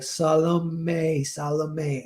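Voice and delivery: Salome said SAH-lo-may, twice over; correct Salome, repeated. Retold or imitated. Everyone reminds the director, Salome as SAH-lo-may. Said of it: "how do you say it again".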